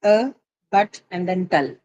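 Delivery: "a, but, tal" broken into separate syllables. Shown as a demonstration. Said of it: "how many syllable does it have".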